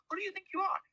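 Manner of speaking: imitating an indignant comeback, pitch leaping up; indignant outburst. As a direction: throw the question back at her, outraged. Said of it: "I was saying to myself".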